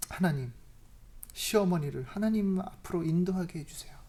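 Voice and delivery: softly whispered plea to God; whispered prayer. Retold or imitated. The changed, humble prayer. (속삭이듯 조용한 기도)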